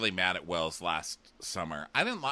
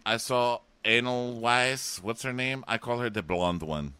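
Shoshana; 4 dB louder than usual. Retold or imitated. Shoshana asks Camille about the blonde, mock accented voice. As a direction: imitate halting accented speech. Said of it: "she's like".

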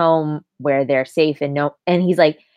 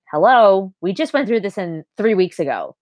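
exasperated retort; 4 semitones higher than usual. Retold or imitated. Acted exasperated argument in retelling.

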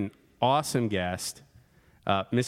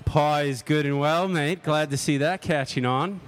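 mock Australian accent; 4 semitones higher than usual. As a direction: play along in a jokey Aussie voice. Host answers in mock Aussie.

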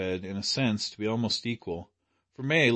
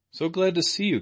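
bright, higher, hearty hello; hearty greeting; 9 semitones higher, 4 dB louder than usual. A narrator's reading. May greeting the captain at the door, hearty and glad. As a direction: greet him with open-hearted warmth. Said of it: "shaking hands with unfeminine heartiness".

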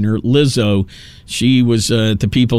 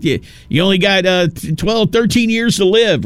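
mocking doom warning; 6 semitones higher than usual.

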